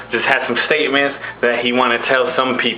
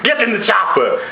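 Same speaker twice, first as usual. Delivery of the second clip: Arnold Schwarzenegger; 8 semitones higher than usual. Acted. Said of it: "And Arnold Schwarzenegger's like".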